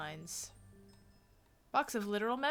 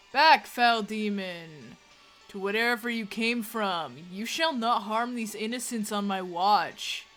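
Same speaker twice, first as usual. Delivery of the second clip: commanding pastor; 7 dB louder than usual. Acted. Pastor banishing demon, theatrical.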